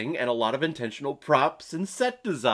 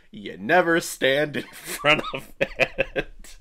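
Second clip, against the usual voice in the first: laughing; slower than usual. Real, not acted. Reading own funny note.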